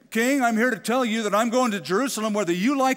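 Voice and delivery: loud, high, pushy challenge; mock bold ultimatum to the throne; defiant demand. Nehemiah wrongly defying the king, loud and pushy.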